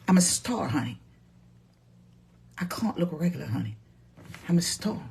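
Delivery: high, haughty diva voice; diva star. Acted. To her live viewers, a high haughty diva boast. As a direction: preen like a Facebook movie star.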